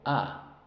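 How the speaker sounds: A as short English O, an open "ah"; short O sound. Shown as a demonstration. Teacher showing short O, an open "ah". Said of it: "La O".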